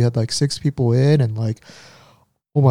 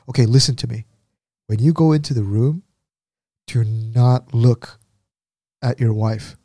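stern. Retold or imitated. Head nurse instructing the husband before he goes in, stern. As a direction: spell out the order with firm pauses. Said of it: "she looks really stern".

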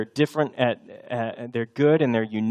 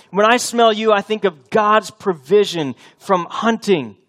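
fervent father's blessing; 6 semitones higher, 4 dB louder than usual. Acted. Preacher voices Isaac blessing son.

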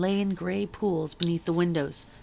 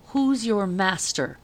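slow, weighty soldier voice; slow soldier question; 2 semitones higher, slower than usual. Acted. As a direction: ask it slowly like a soldier on watch.

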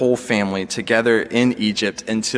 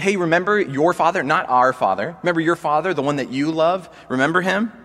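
higher, coaxing guilt-trip voice; pleading brothers; 5 semitones higher than usual. Retold or imitated. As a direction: lay the guilt on, pressing the father's memory. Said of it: "the way they talked to him and said".

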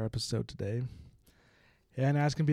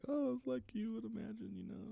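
vague bluff; 12 semitones higher, 7 dB quieter than usual. Retold or imitated. Davian bluffs about training.

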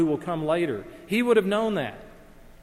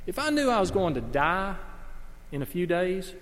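put-on seventh grade boy; 3 semitones higher than usual. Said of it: "seventh grade guys talking now".

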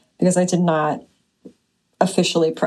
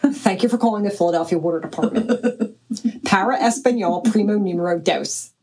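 South Philly woman imitation. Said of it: "this woman from South Philly".

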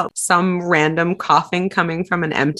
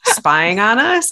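mock nonchalant friend; 5 semitones higher than usual. Mocking nonchalant ghost owner.

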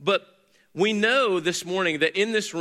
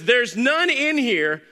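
slow, raised, loud and dismissive; lazy husband voice; 6 semitones higher, 4 dB louder, much slower than usual. Retold or imitated. Husband to his wife at the fridge, slow and dismissive. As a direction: drag it out like a husband who never looked. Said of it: "turns around to you and says".

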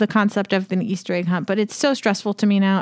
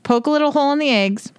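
whispering; 5 semitones higher than usual. Real, not acted. Whispered instruction mid-explanation.

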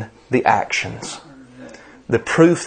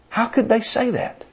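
incredulous question; 10 semitones higher, 5 dB quieter than usual. Real, not acted. Preacher to congregation about dismissive pastors, incredulous. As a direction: pitch leaps way up in disbelief.

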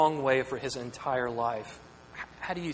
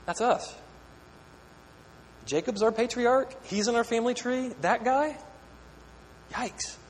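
mock dismay; 7 semitones higher than usual. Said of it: "as Israel going".

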